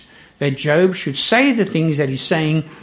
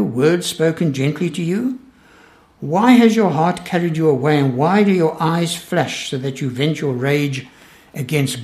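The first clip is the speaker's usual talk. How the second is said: measured, earnest Bible reading; scripture reading. Acted. Preacher reading Eliphaz's rebuke to the congregation, measured. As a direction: read the accusing speech with weight. Reads Eliphaz's speech aloud.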